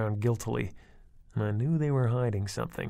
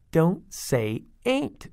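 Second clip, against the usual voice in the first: slow, high prim correction; a little girl scolding her sister; 7 semitones higher, 4 dB louder, much slower than usual. A narrator's reading. Tina corrects her sister, slow and scolding. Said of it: "Tina scolded".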